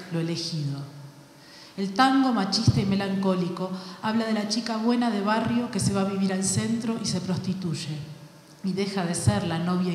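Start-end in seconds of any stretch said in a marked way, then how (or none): none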